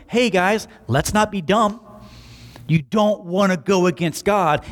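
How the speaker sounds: breezy, offhand modern retelling; casual paraphrase. Retold or imitated. Teacher casually telling the council off, breezy offhand tone. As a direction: toss it off like a buddy's advice. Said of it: "listening to his teacher going".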